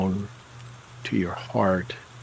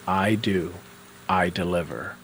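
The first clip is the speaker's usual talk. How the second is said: matter of fact; 3 semitones lower than usual. Shown as a demonstration. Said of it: "kind of as a matter of fact".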